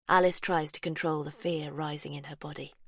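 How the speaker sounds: whispered narration. A narrator's reading. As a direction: hush it like a secret.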